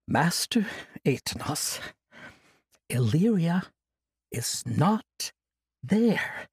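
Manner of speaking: measured, patient, with pauses; slow and calm. Acted. Kasai telling the old monk calmly, slowly. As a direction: break it to him gently and slowly. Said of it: "Kasai spoke slowly and calmly".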